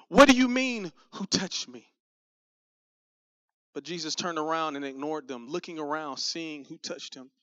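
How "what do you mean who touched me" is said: baffled, exasperated pushback; incredulous disciples. Acted. Disciples answering Jesus about the crowd, incredulous. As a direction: burst out higher and louder, then drop off.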